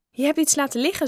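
high-pitched, lively call-out; pointing out litter. A narrator's reading. Bob pointing out litter to Joe, high and lively.

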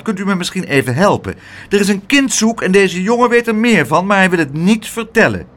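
upset woman calling a policeman over; indignant aunt. Acted. Aunt echoes Pluk scornfully then calls the officer, indignant.

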